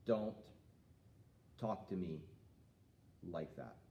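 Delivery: steady, calm, falling off to a low finish; calm and firm. Shown as a demonstration. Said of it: "we wanna be nice and calm".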